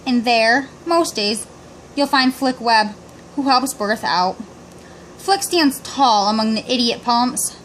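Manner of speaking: measured poem reading with pauses between phrases; poem recitation. A narrator's reading. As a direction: recite it line by line, stretching some phrase endings.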